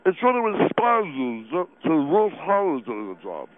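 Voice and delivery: chewing while talking; mouth full. Acted. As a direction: talk through a mouthful. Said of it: "impolite to talk with your mouth full".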